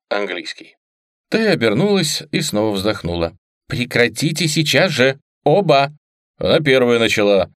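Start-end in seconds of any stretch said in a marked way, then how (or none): 3.7-5.9 rising sharp rebuke; stern scolding. Acted. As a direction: snap at them to stop. Mother scolding.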